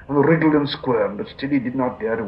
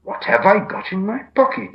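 higher-pitched musing question; said aloud; 10 semitones higher, 4 dB louder than usual. A narrator's reading. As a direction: wonder it out loud, pitched up. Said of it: "he said aloud".

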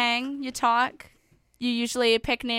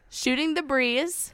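syllable by syllable; 3 semitones higher, slower than usual. Shown as a demonstration. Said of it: "Let's count it out again".

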